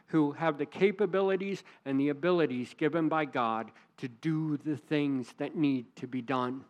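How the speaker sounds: ordinary talk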